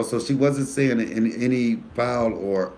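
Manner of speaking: ordinary talk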